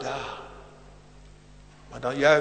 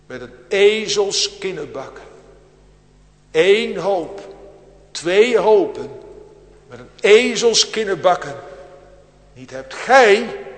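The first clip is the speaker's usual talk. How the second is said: boastful Simson; 5 semitones higher, 9 dB louder than usual. Pretend. Simson's boast quoted by preacher.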